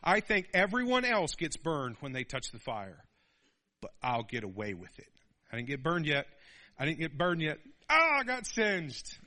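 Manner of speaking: lightly voiced defiant boy; a hint of stubborn teen; cocky kid. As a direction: shrug off the warning. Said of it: "And you're like".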